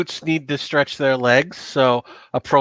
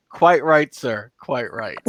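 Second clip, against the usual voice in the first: lightly voiced careful, proper Latin diction; a Briton minding his best Latin pronunciation; slower than usual. Romanized Briton to Roman officer, in a careful Latin accent. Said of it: "in his most careful Latin".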